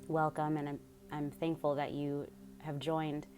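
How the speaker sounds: calm, measured meditation guide with long pauses; guided meditation. Real, not acted. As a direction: lead them unhurriedly through breath and focus.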